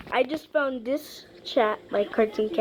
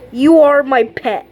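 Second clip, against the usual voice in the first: teasing shout; 7 dB louder than usual. Real, not acted. Teasing the cat loudly.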